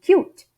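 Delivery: "cute" as one syllable, the E left unsounded; near-silent final E. Shown as a demonstration. Teacher demonstrating English pronunciation, "cute" with a mute E. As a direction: say "cute" with the U carrying it and no E after the T. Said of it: "eu tenho um E quase que mudo aqui".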